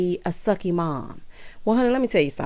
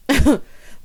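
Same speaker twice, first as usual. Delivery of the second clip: brief amused chuckle; short laugh; 4 semitones higher, 3 dB louder than usual. Real, not acted. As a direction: let out one short laugh. Laughs before continuing her recap.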